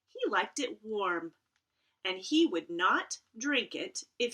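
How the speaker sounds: gentle rhyming storybook read; reading to children. Acted. Librarian reads a rhyming picture book aloud to her students. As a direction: read the verse to the kids.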